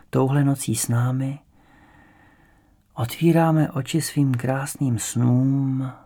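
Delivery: slow, measured verse with long pauses; poem recitation. A narrator's reading. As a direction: recite it slowly, line by line, letting each hang.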